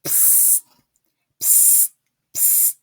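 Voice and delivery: unvoiced psst; psst hiss. Wolf hissing to catch the witch's attention, quietly. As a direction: get her attention secretly.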